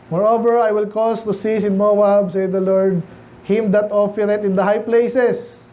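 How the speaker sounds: slow, measured Bible reading; scripture reading. Acted. Pastor reading Isaiah to the congregation, slow and solemn. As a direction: read the verse slowly and solemnly.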